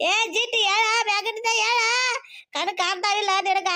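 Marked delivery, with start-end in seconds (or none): 0.1-1.8 scolding yell. Acted. Yelling at sister after fall.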